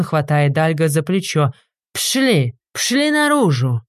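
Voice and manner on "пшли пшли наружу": higher, slow, drawn-out order; bouncer. A narrator's reading. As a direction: throw the drunks out. Bouncer throwing drunks out. (вышибала выгоняет пьяниц)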